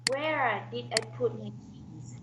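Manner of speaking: slow practice question falling on "keys"; falling intonation. Shown as a demonstration. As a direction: repeat it carefully, dropping on "keys". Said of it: "falls at the end".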